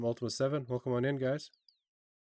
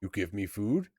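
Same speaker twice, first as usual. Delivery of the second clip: lightly voiced troll, rising question; tentative troll surprise; surprised, hopeful troll. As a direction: ask like a starving troll daring to hope. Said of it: "a mixture of surprise and hope".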